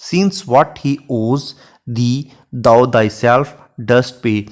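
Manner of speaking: lingering over each word of the sonnet; unhurried classroom recitation of Shakespeare; slow poem recitation. Shown as a demonstration. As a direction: read the verse very slowly and evenly. Recites sonnet line in English.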